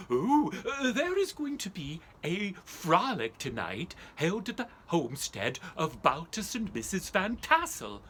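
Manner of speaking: excited messenger. Acted. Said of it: "a messenger saying".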